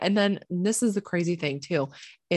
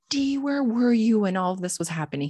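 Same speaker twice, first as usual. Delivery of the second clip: imitated mom, pitched higher; mom questioning; 4 semitones higher than usual. Mom to D about where he was, imitated questioning. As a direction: retell a mother's demanding question in a raised pitch. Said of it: "and my mom, she was like".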